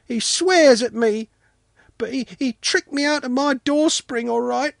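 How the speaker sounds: put-on little boy's high, indignant wailing complaint; offended wail. A narrator's reading. Sanka denying he's a bourgeois, wailing in hurt protest. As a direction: pour out grievances in a high, loud child's voice. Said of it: "Sanka wailed, deeply offended".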